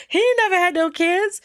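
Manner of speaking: very high, loud incredulous cry; comic high-pitched outburst; emphatic debunking. Retold or imitated. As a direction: imitate a friend loudly exposing a liar. Acts friend exposing the lie, amused.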